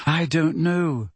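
slow, downcast "I don't know"; miserable. Acted. Hermione answers Hagrid, slow and miserable. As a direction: sound beaten and worn out. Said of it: "said Hermione miserably".

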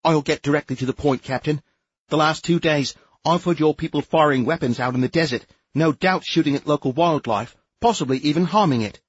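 haughty bureaucrat lecturing the captain; officious inspector. A narrator's reading. Sneef character voice, higher.

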